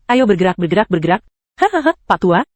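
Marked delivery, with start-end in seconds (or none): 1.6-2.5 mocking laugh. Mocking laugh at old man.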